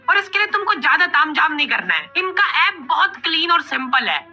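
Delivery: upbeat app promo delivered with punch; sponsor ad read. Acted. Pitching a language app to viewers, emphatic ad read.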